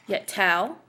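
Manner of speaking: light "yet", then "tell" held with a rising tune; demonstrating one iamb, weight on "tell"; iamb, stress on TELL. Shown as a demonstration. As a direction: lean on "tell" after a short "yet". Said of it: "that's an iamb".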